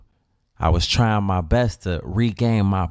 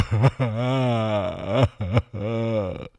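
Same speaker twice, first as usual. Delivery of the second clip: mock sobbing; 3 dB quieter than usual. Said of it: "Crying hard as hell".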